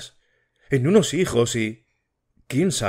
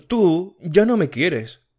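higher and slow, aching; hurt accusation; 7 semitones higher, slower than usual. Acted. Matilde tells José Antonio he no longer loves her, slow and hurt. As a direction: drag it out, wounded.

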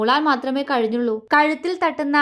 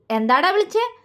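mock anger; 6 semitones higher than usual. A narrator's reading. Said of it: "കപടദേഷ്യത്തോടെ ചോദിച്ചു".

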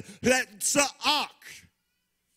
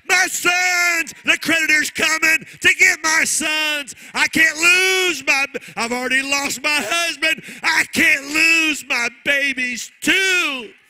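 widow crying out; 3 semitones higher, 6 dB louder than usual. Acted. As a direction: cry it out like a widow begging the prophet. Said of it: "but she cries out".

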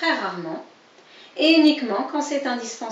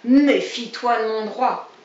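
threatening riposte; 6 dB louder than usual. Acted. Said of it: "ripostait Brun".

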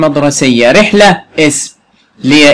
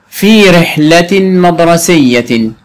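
drawn-out phrase reading; slow reading; 2 semitones higher, much slower than usual. Shown as a demonstration. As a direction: read slowly, word by word. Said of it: "teacher reads phrase slowly".

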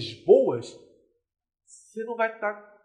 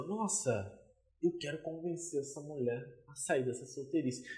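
hushed, much softer acted thought; musing inner thought; 3 semitones lower, 11 dB quieter than usual. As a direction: think it quietly to yourself, as the suitor. Voices the man's inner thought. (pensamento em voz baixa, encenado)

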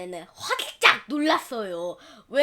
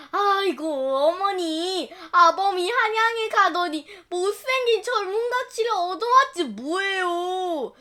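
tearful complaint; 5 semitones higher than usual. Acted. Wife complains to mother-in-law.

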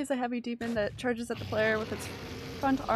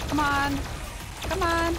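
loud, rising impatience; urging; 4 semitones higher, 3 dB louder, slower than usual. Real, not acted. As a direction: push hard, get louder. Urging the game on.

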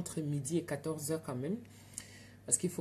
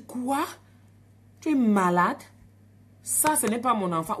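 very loud, outraged; retold yelling; 4 semitones higher, 8 dB louder than usual. Mother yelling at the midwife, very loud and furious. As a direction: blow up at her.

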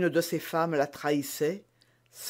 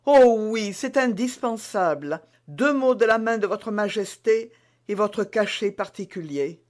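higher, eager, urging; insistent maid; 5 semitones higher, 4 dB louder than usual. Acted. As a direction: press the queen to write. Bonacieux insiste. (servante pressante, plus aiguë)

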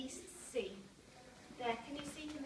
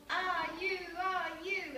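heaving effort; 5 semitones higher, 6 dB louder, slower than usual. Acted. Everyone pulling the chain.

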